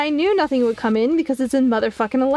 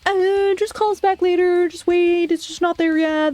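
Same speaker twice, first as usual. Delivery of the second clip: higher-pitched, drawn mock brush-off; dismissive customer service; 5 semitones higher than usual. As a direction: imitate an unhelpful agent fobbing you off. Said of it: "customer services was the one that was like".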